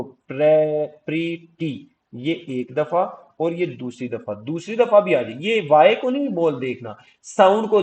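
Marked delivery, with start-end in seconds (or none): 0.0-1.9 प्रीटी broken into two syllables; syllable demo. Shown as a demonstration. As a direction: say प्रीटी in two slow parts. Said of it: "दूसरी दफा भी आ गई, ये देखो".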